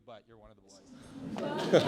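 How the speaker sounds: loud, slow closing line; emphatic. Real, not acted. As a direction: land the toast big and slow.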